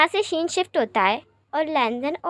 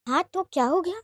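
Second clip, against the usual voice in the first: "हाँ तो क्या हो गया?" thrown back higher with a rising tune; incredulous echo; 5 semitones higher than usual. Acted. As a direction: repeat his words in disbelief, pitch climbing on "हो". Lanzan echoes Wing in disbelief.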